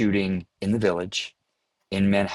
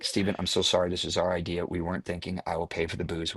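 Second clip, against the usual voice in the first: softer, embarrassed apology fading away; sheepish apology; 3 semitones lower, 7 dB quieter than usual. Retold or imitated. Actor apologizing to the director, quiet and sheepish. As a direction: mumble it like a guilty kid.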